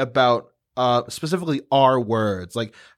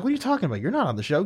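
lightly voiced old woman, softer, starting high; doubting old woman; 4 semitones higher, 5 dB quieter, much faster than usual. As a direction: imitate a dismissive old woman, softly. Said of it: "this old woman's like".

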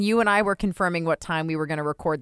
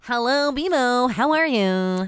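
announcer voice; 5 semitones higher, slower than usual. Acted. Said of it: "I'm into it".

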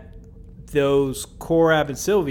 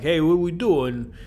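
slightly raised, lightly put-on Brooklyn voice; light New York Brooklyn accent; a hint of Brooklyn accent; 4 semitones higher than usual. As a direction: slip briefly into mock Brooklyn. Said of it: "No more Brooklyn accents".

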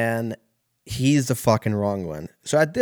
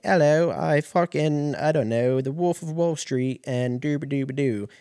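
mock Siri voice; 5 semitones higher than usual. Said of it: "she'll be like".

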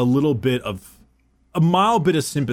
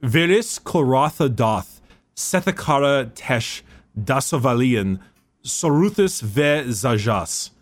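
Nostraman recitation. Shown as a demonstration. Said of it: "butcher some horrible Nostraman".

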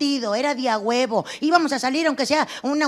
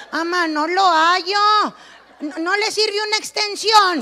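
put-on timid child voice; 5 semitones higher than usual. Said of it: "Le daba opciones".

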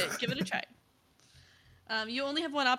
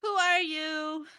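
slow, louder menacing ask; ominous question; 6 semitones higher, 4 dB louder, much slower than usual. Acted. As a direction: loom over them slowly. Mysterious voice repeats question.

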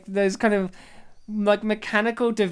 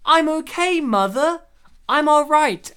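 much higher and louder, insisting she's fine; reassuring daughter; 7 semitones higher, 8 dB louder than usual. Acted. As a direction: cry out to mother that you're unharmed. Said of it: "I said".

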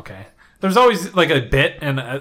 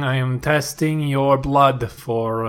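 lightly voiced nurse; much slower than usual. Playing a blood-test skit.

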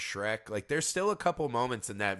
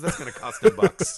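put-on old-timey voice; 8 semitones higher, 9 dB louder than usual.

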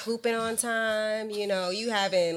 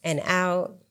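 guided meditation; 3 semitones lower than usual. Acted. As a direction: talk them through a deep breath. Leads a chakra breathing exercise.

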